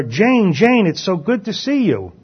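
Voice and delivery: a mild happy hail of a friend; happy call. Retold or imitated. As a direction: greet her across the pews with joy. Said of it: "happily call to her".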